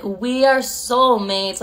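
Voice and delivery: slow, drawn-out imitation of devotion; mock lovestruck ex. Imitating her ex's devotion, slow and mock-lovestruck. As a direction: stretch it out, gently mocking.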